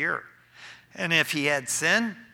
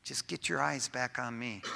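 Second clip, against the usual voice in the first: gentle God voice; 4 semitones lower, 8 dB quieter than usual. Acted. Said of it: "God's going".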